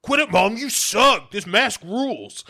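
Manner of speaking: high, loud bratty whine; bratty kid. Retold or imitated. Michael snapping at his mom, high and loud. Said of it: "and he's like".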